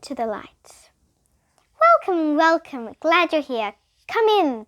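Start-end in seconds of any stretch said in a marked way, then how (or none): 1.8-4.7 higher, inviting teacher voice; welcoming woman. A narrator's reading. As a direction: greet them sweetly. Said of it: "the woman said".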